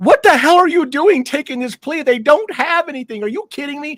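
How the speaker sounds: mock, very high, exasperated, incredulous, outraged outburst. Retelling a reaction to a plea deal in court: retelling own exasperated outburst. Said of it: "wanted to come out of the chair".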